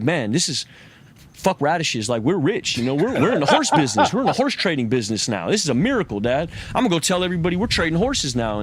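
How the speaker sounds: rising, fast, laughing with glee; excited son. Retold or imitated. Farmer's son telling his dad about the wild horses, thrilled and fast. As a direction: burst in with the good news, almost laughing.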